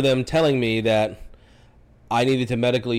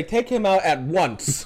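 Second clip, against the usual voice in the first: slow, drawn-out pompous order; mock-imperious slow demand; mock command; 4 semitones higher, much slower than usual. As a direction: pretend to order officers about, stretching the words. Mock command to handcuffing officers.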